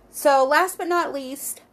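talking through a yawn. Real, not acted. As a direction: yawn breaking into the words. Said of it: "sorry, I keep yawning".

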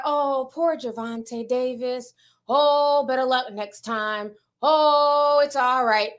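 mock sympathy. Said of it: "nobody would be like".

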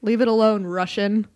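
stern dad. Acted. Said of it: "I'm going to play the part of her dad".

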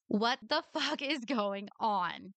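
slow, drawn-out disbelief; fed up and baffled; slow exasperated rhetorical question. Real, not acted. Exasperated after two hours of audio.

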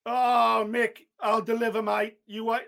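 Basil slipping into mock Australian; eager fighter in a wandering Australian accent; accidental Australian accent. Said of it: "I've gone Australian again".

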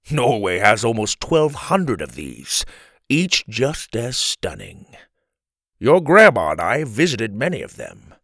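a hint of a grandfather playing tour guide; lightly voiced grandpa.

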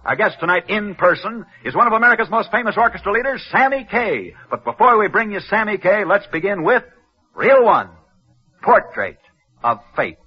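put-on bright, brisk old-time radio host opening; radio announcer. Host greets the radio audience, upbeat announcer read. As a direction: welcome the listeners like a 1940s sports broadcaster.

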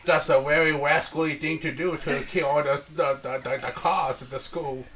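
lightly put-on Asian accent dad; Chinese restaurant accent. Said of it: "Why do you sound like the guy at the Chinese restaurant?".

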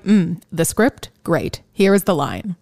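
imitating Keanu. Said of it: "where he's just like".

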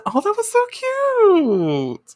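high, slow gushing over something cute. Real, not acted. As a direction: coo it out, way up high.

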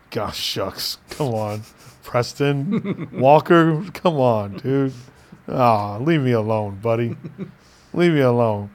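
low, soft aw-shucks modesty; mock bashful. Brushing off a commenter's Idris Elba compliment, mock bashful. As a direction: play flattered and coy, voice dropped.

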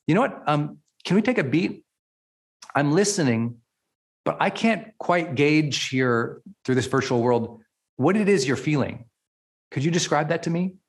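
calm, caring question; gentle coaching check-in. Shown as a demonstration. Coach on Zoom to client, calm caring check-in. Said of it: "look at 'em right on Zoom and say".

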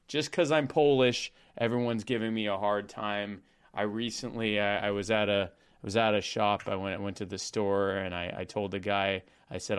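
deadpan anti-joke storyteller, understated; Norm Macdonald impression. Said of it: "cease and desist from the Norm Macdonald estate".

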